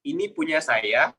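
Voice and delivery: "Ini punya saya" as an even, slow statement; first intonation demo. Shown as a demonstration. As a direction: say "Ini punya saya" slowly and plainly, level pitch. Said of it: "tiga kata ini dengan intonasi yang berbeda".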